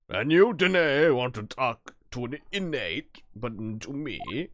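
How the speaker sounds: loud, puffed-up governor; a swaggering prison governor announcing himself; flexing tough guy. Acted. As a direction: boom it out like a strongman showing off. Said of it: "like a flexing guy".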